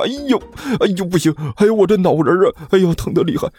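high, whiny wails of headache; pained moaning. Acted. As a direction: moan theatrically as your head throbs. Groaning from a sudden headache. (头疼得哎呦直叫)

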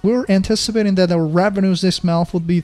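mildly displeased, incredulous challenge; dissatisfied boss. Acted. Boss challenging a team's growth report, mildly dissatisfied. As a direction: question the team's report with mild disbelief. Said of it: "你很不满意".

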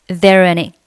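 "There any" joined through the r at normal speed; linked there are any. Shown as a demonstration. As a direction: run "There any" together in one piece. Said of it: "可以构成辅元连读".

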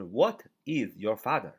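slow and careful, every word of "What is your father?" separate; read it slowly. Shown as a demonstration. Teacher showing students the slow, full reading. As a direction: spell out "What is" as two clear words. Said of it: "慢一点就是".

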